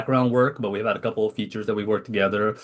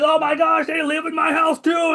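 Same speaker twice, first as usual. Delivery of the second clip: much higher, louder hammed-up alarm; mock panic; 3 dB louder than usual. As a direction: yelp it out as a comic disbelief. Retold panic: neighbours too.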